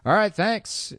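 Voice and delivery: relieved thanks. Retold or imitated. Driver thanks the cop who let it slide, relieved.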